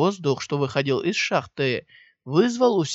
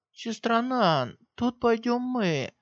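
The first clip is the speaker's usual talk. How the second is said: higher, slow and smiling; 8 semitones higher, slower than usual. A narrator's reading. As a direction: say it with a smile. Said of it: "с улыбкой сказала Хэ Циньмань". (с улыбкой)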